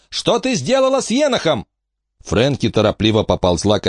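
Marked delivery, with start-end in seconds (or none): 0.1-1.7 намного выше, сдержанный гневный крик; требуй ответа; заорала. A narrator's reading. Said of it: "заорала на неё Эмма". (Эмма кричит на Фрэнки)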